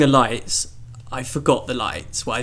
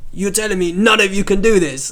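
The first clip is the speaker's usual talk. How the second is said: loud, high, incredulous Cockney challenge; put-on Cockney, pitched up in disbelief; attempted Cockney accent; 7 semitones higher, 5 dB louder than usual. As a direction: imitate an affronted Cockney stranger. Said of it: "four different accents for this one guy".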